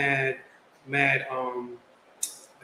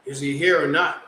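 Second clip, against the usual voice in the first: deadpan, no smile in the voice; straight face; 3 dB louder than usual. Retold or imitated. Newcomer to the teasing barber, deadpan straight face. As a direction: ask it flat and dead serious. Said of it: "I give him a straight face".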